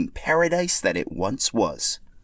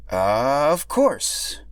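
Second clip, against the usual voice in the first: louder startled then higher; Yoshi voice; 5 semitones higher, 4 dB louder, much slower than usual. Acted. Yoshi surprised she knows their plan, lightly voiced. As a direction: caught off guard, then sure.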